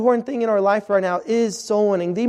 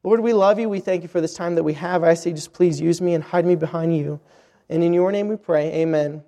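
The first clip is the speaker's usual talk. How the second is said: prayer; 3 semitones lower than usual. Acted. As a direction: pray humbly before preaching. Opening prayer before the sermon.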